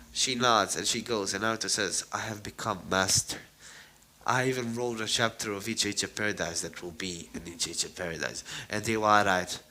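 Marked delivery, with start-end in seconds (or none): 2.1-8.4 low-key solemn announcement; understated, earnest declaration; dead serious. Acted. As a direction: deliver it gravely, without any play. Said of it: "he is dead serious".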